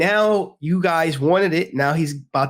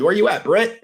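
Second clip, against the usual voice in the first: hype call-out; 5 semitones higher than usual. Real, not acted. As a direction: hype up the chat. Calling out to chat.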